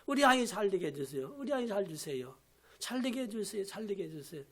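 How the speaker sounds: fading into a near-whispered prayer; quiet pleading prayer. Acted. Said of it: "이런 마음이 없어가지고 어찌 엄마입니까".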